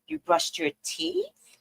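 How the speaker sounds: slow, hushed question; quiet. Retold or imitated. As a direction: hold back, keep it soft. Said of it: "I can't yell".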